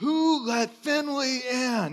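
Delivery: angry, irritated, high, very slow and drawn-out. Retelling what was said to the household while making breakfast: imitating an angry question. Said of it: "I'm just angrily making eggs".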